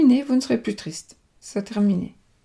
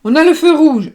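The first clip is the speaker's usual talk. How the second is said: surprised exclamation; 7 semitones higher, 9 dB louder than usual. Real, not acted. Card reveal, startled exclamation.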